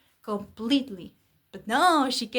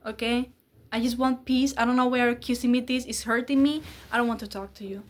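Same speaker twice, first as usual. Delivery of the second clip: put-on louder, exasperated boyfriend voice; mock angry rant; 4 dB louder than usual. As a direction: rant at her like the fed-up boyfriend.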